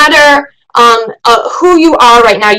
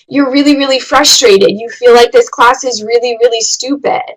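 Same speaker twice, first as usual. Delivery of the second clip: empathetic. Shown as a demonstration. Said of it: "doing it in an empathetic, caring way".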